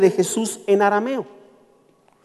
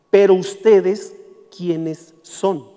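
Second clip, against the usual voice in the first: menacing evil spirit; 3 semitones lower, much slower than usual. Acted. Evil spirit challenging the exorcists, low and slow. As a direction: let the demon sink low and slow on "¿quiénes son?".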